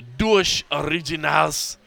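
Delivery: "Duas Originals" with a rolled Spanish R; Spanish-style pronunciation. Real, not acted. Naming the Brazilian beers brought down, "Duas Originals" said Spanish-style. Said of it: "I rolled it like it was Spanish".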